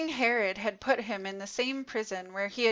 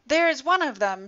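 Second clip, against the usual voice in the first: loud, raised accusing call; shouted; 4 semitones higher, 5 dB louder than usual. Acted. A guard shouts out Peter to the crowd, loud. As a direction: yell it out, pointing him out. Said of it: "shouted one of the high priest's men".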